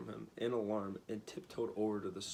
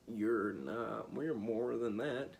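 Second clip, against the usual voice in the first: grieved tone; 5 dB louder, slower than usual. A narrator's reading. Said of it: "in a grieved tone".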